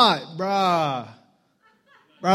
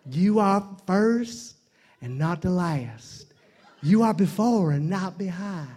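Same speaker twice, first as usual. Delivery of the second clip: Joel Osteen impression. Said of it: "you guys heard of Joel Osteen?".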